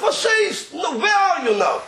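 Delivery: a high, laughing "Was ist?"; lightly voiced surprise from the rebbe; surprised question.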